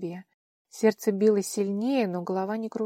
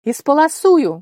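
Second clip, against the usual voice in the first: high, much louder desperate cry; desperate shout; 7 semitones higher, 14 dB louder than usual. A narrator's reading. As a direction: scream it out in despair. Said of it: "в отчаянии крикнула Ваара". (отчаянный крик)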